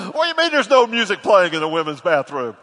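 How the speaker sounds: loud disbelieving question; a hint of his wife's voice; mock-baffled retort; incredulous. His wife's retold incredulous reply.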